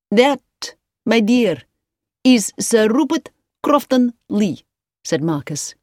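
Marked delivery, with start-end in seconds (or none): 0.1-4.6 high, loud, measured announcing; name the guest grandly, piece by piece; grand introduction. A narrator's reading. Marcus grandly identifies the guest.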